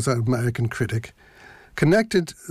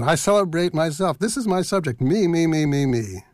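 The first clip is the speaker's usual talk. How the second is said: egotistic; 3 semitones higher than usual. Acted. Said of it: "That's very egotistic, isn't it?".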